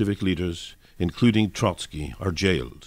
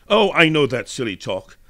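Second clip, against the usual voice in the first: higher, louder, rude scoff; 6 semitones higher, 5 dB louder than usual. A narrator's reading. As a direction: cut him off with contempt. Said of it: "broke in the student rudely".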